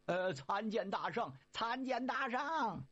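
slow, drawn-out humble greeting; bow and greet the sage slowly; kneeling greeting. Acted. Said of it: "纷纷跪倒".

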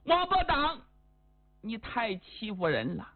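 acted hurt indignation, rising and sinking; aggrieved, tearful anger. Spurned hostess reproaches Wang Bodang, wronged and upset. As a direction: protest like a wronged woman, mildly tearful. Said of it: "气得浑身颤抖，眼泪都出来了，感觉委屈呀".

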